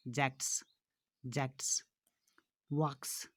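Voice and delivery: जैक्ट्स, वॉक्स each closed on a voiceless S; final S sound. Shown as a demonstration. Teacher drilling pupils on plurals, clear final S in जैक्ट्स, वॉक्स. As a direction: separate words, clear S ending on जैक्ट्स and वॉक्स. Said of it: "एस स sound निकलता है".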